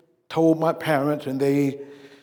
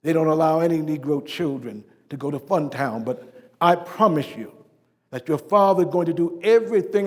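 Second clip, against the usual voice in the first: tender explanation. Retold or imitated. Father explaining segregation to daughter.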